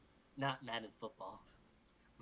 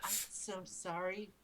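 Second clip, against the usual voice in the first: shy voice; 4 semitones higher, slower than usual. Acted. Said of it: "He said in a shy voice".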